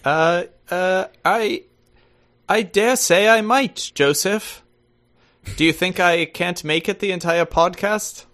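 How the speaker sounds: put-on posh-phrased British accent. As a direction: play the very British guest, drawing out the formal phrasing. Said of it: "are you gonna do the accent".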